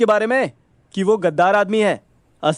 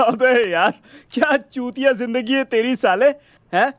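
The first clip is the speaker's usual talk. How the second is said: amused, slightly raised jeering; laughing mockery; 4 semitones higher than usual. Friend ridiculing his two runaway plans, amused and mocking. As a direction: tease him while getting over a laugh. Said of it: "साला जोर जोर से हंसने लगा".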